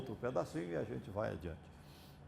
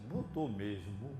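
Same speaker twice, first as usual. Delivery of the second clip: mild suspicion; 3 semitones lower, slower than usual. Retold or imitated. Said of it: "a forma ferina".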